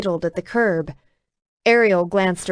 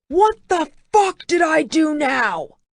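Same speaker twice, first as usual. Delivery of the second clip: higher and louder, furious roar; 8 semitones higher, 4 dB louder than usual. A narrator's reading. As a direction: bellow it in frustration. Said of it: "he roared".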